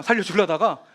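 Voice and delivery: usual speaking voice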